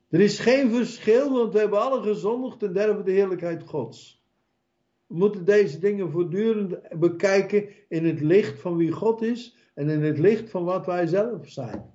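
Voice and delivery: high, urgent preaching voice. Acted. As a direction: preach it up with fervour. Preaching at full force.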